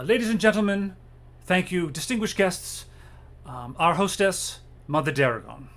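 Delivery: butler announcing guests. Acted. Nigel announces Mother Daragon to guests, lightly formal herald voice. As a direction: present the hostess to the room.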